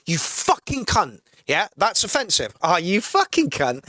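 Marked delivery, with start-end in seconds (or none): 0.1-1.2 slow, cold, menacing insult; slow nasty jab meant to wound; hostile slur. Shown as a demonstration. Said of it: "the intent with which you say it". 2.6-3.8 fond, easy-going jab between mates; mild affectionate ribbing; friendly insult. Shown as a demonstration. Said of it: "It's not offensive".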